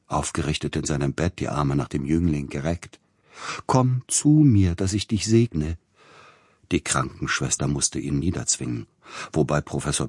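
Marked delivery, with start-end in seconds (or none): 3.7-5.8 high, loud, slow calling out; ecstatic cry. A narrator's reading. Dying composer calling the young man to his bed, loud and high. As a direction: cry out with arms stretched to him. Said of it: "rief der leidende Verzückte".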